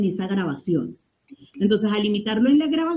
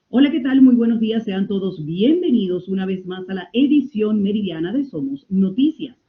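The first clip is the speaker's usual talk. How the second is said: distant, detached TV news voice; cold news anchor. Shown as a demonstration. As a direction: open the bulletin cold and formal, like a TV anchor. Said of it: "Ok, fría, distante, total".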